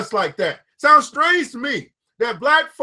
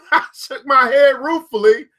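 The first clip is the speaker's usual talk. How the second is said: laughing read. Real, not acted. Laughs at own stumble.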